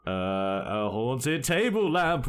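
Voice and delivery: stall, then burst into mock-ghostly whooping; Stephen King. Writer pitching his next book, hammed-up spooky improvising. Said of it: "that Stephen King joke from Futurama".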